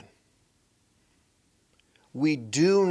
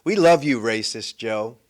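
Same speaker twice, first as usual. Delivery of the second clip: mock Harris gushing; 6 semitones lower than usual. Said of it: "I love how she does that".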